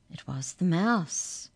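plain reading voice

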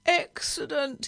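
drawn-out high moan. A narrator's reading. Nervous driver fretting all the way down the road, moaning. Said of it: "he moaned all the way down the road".

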